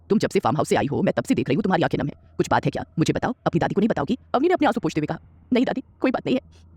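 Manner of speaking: a hint of a gentle old grandmother asking. Narrator voices grandmother.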